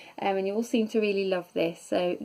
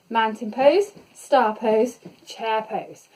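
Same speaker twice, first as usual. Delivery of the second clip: calling out; 4 dB louder, slower than usual. Real, not acted. Coach calling out moves.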